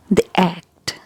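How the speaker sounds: "the act" with "the" as short "thee"; the before vowels. Shown as a demonstration. Teacher gives a vowel example, short "thi act". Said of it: "when it appears before a vowel sound".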